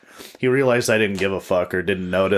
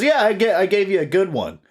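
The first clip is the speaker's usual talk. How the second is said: much higher, cocky; high mock homeless guy; 11 semitones higher than usual. Homeless guy boasting about the punch, in a high mocking voice. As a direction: brag it up high. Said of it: "He goes".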